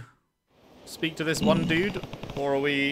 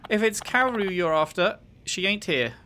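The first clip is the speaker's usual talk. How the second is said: lightly voiced bar hostess, higher pitch; a hint of a hostess greeting a regular; 6 semitones higher than usual. Voices a bar worker greeting the player.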